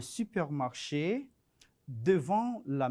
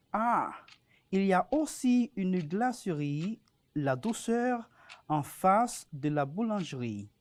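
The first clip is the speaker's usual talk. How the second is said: reading a text aloud. Acted. Reads French text aloud.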